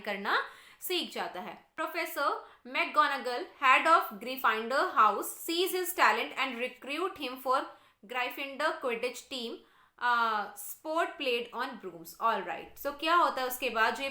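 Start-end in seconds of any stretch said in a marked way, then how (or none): 1.8-12.1 slow, deliberate textbook read-aloud; measured classroom reading. Real, not acted. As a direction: read it out slowly for a class, word by word. Reads the English text aloud.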